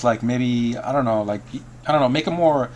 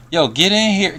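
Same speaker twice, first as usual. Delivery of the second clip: loud call into the room; 6 semitones higher, 5 dB louder than usual. Real, not acted. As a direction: shout them into the call. Calling a friend into chat.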